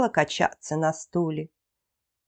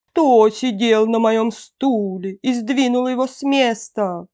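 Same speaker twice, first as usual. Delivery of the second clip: mother-bear growl, a little held back; softened bear growl; 3 semitones higher, 3 dB louder than usual. A narrator's reading. Mother bear sees her chair moved, milder growl. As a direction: growl it, short of a full roar. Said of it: "зарычала не так громко".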